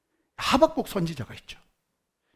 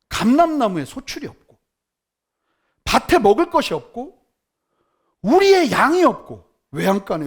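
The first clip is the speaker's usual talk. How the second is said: fervent proclamation; 6 dB louder than usual. Acted. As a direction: proclaim it loud, end in a hushed whisper. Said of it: "이런 정신 나간 소리를 하죠".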